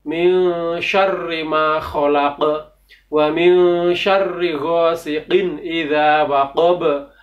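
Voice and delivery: slow, careful recitation, repeated; Quran recitation. Shown as a demonstration. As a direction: recite it again slowly and clearly. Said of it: "Saya ulangi lagi".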